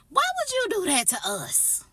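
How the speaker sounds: high, loud indignant protest; exasperated outcry. Acted. Teller protests being made a witness to the push, loud exasperated outcry. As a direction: wail it out in outrage.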